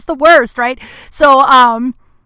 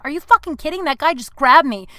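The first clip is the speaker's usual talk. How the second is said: retold indignation; 5 semitones higher than usual. Replays protest to dismissive friends.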